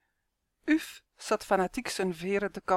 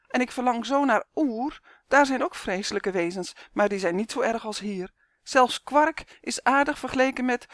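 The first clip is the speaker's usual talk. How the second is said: higher, tearful and complaining; tearful lament; 4 semitones higher than usual. Acted. Uf pours out homesickness to Justin, tearful. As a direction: whimper out the homesickness. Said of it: "snotterde zijn vriend".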